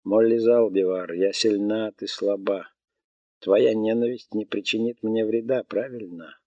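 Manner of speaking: lightly voiced melodic robot; a calm machine stating facts. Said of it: "обратилась к девушке голосом робота".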